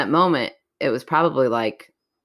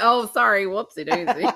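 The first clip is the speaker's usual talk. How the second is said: mock apology; 5 semitones higher than usual. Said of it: "I'm like".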